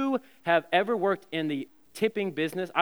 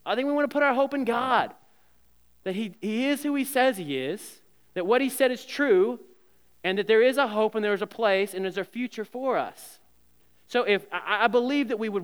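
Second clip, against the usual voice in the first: fervent preaching; 6 semitones higher, 3 dB louder than usual. Real, not acted. Pastor preaching hope in God.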